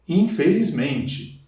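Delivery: infelizmente said slowly, syllables spaced; slow teacher demo; slow, drawn out. Shown as a demonstration. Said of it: "eu tenho prefixo e sufixo".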